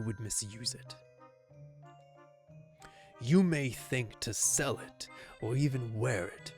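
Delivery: gravelly knight villain voice. Acted. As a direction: growl it like a menacing swordsman. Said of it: "Gravelly voice got me".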